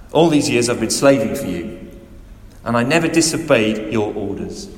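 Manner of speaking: put-on older son resentfully accusing his father; rude resentment. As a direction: throw your grievances at your father. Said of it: "speaks very rudely to the father".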